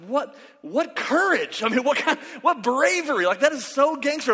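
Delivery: high, swooping, hammed-up awe; mock amazement. Young hunter reacting to the bird gnawing his gun, hammed-up amazement. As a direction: marvel theatrically, pitch leaping up.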